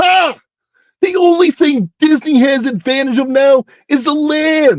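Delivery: very high-pitched cartoonish put-on voice. Reading a line aloud in the ALF voice. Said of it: "that I will read in the Alf voice".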